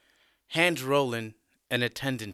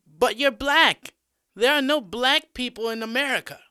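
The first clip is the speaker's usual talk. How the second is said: very high, loud, incredulous schoolgirl; female student; 12 semitones higher, 8 dB louder than usual. A narrator's reading. Female student challenges her American teacher, high-pitched and disbelieving. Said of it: "A random female student speaks".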